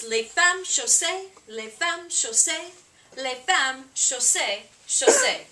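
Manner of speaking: "Les femmes chaussées" in rhythmic repeats, first ones lifted; chorus demonstration. Shown as a demonstration. Performer teaching audience the singalong, "Les femmes chaussées" in rhythmic chorus phrases. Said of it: "if you want to sing along, the chorus is".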